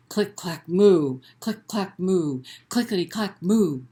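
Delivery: rhythmic click clack with a big loud moo; read-aloud refrain; typing cow refrain. Acted. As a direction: bounce the clicks, belt the moo. Refrain again.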